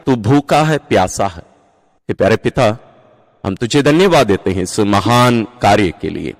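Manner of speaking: earnest prayer addressed to God, measured and devout; spoken prayer. Acted. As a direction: pray aloud on behalf of the congregation.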